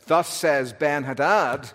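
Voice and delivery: slow, firm royal boast; cocky, deliberate decree; cocky king's proclamation. Acted. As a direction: proclaim it slowly, like a strutting king. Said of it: "the cocky claim of the strutting Syrian".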